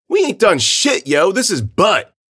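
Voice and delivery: high, loud, drawn-out whine of outrage; protesting kid. Acted. Kid protesting innocence to the police, indignant.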